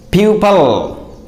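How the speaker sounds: PUPIL as "PYOO-pul"; correct pronunciation. Shown as a demonstration. Teacher repeats for learners, pupil pronounced "PYOO-pul". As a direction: say PUPIL with a weak "pul" ending. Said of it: "This is the correct pronunciation".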